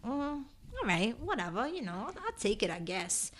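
soft, unimpressed mumble; mock indifferent murmur. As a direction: shrug it off under your breath. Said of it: "I was kinda like".

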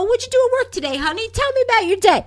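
a touch of a loving spouse; mock doting wife. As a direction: coo it like a caring wife. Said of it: "You never hear Kendall say".

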